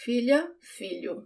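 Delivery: "Filha, filho" with LH like a subtle "ly"; touch mid-tongue to palate for the LH in "Filha, filho"; "Filha, filho" said FEE-lya, FEE-lyu; Portuguese LH sound. Shown as a demonstration. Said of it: "The sound of the L H".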